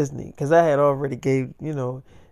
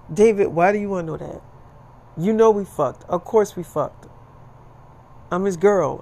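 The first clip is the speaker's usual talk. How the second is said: acted indignant retort, slightly higher; indignant girlfriend; 3 semitones higher than usual. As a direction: play a girlfriend defending herself. Acts out girlfriend snapping back in argument.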